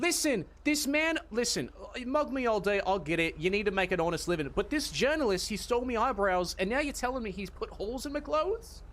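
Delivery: lightly voiced London geezer; cockney accent. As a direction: put on a cockney bloke. Continuing cockney character.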